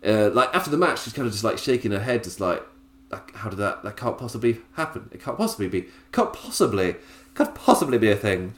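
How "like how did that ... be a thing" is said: lightly posh, quiet disbelief; a hint of a posh lady who can't believe she lost. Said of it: "I made it so incredibly posh".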